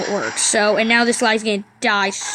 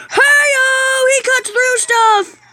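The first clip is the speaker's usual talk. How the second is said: high-pitched whoop of delight; excited; 11 semitones higher, 3 dB louder, much slower than usual. Real, not acted. Gamer seeing the bird cut through stuff, excited. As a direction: cheer it out high.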